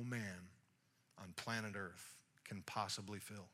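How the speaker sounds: low, hushed, with long pauses; quiet, solemn offer. Acted. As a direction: offer it softly and unhurriedly. Jesus speaks gently to the woman.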